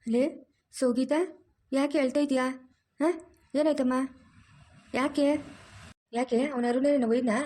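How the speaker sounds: a mother-in-law who fusses and scolds at once; bossy mother-in-law. Acted. Mother-in-law finds her daughter-in-law crying, scolds and comforts.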